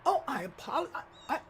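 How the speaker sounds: stammering apology in a mock Latina accent; thick Latina accent. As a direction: imitate a Latina tripping over an apology. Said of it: "her accent was so thick".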